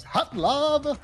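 high, loud announcer shout; game announcer. Retold or imitated. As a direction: bellow it like a racing game announcer. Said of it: "the announcer voice goes".

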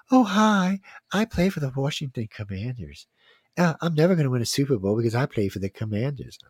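a lightly lilting mock player voice, teasing; playing up a silly team player voice; mock fairy voice. Host mocking Commanders players, light fairy voice. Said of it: "That's not my gay voice. No, that's my fairy voice".

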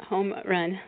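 "home run" with h, English vowels. Shown as a demonstration. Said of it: "Spanish then English".

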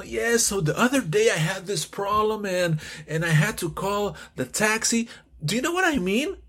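relaxed conversational English, rising question at the end; teacher acts a chatty speaker telling a story; casual American speaker. Shown as a demonstration. Easygoing American speaker, lightly acted. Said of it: "suena algo así".

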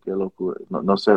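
normal talking voice

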